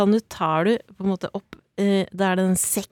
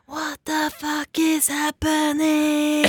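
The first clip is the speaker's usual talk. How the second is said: mock yell, higher and slow; mother in labour yelling at staff, a mild mock yell; retold yell; 7 semitones higher, much slower than usual. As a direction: replay the panicked shout in a drawn-out higher voice. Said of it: "Fordi jeg ropte".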